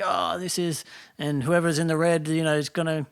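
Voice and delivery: a touch of live game commentary; game caster commentary. Acted. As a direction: talk through the match as a caster. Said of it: "talk through somebody else's game".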